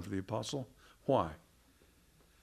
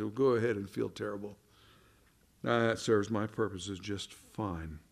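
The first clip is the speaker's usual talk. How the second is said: gloating false prophet; 4 semitones lower than usual. Retold or imitated. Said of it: "just gloats and smiles at you and says".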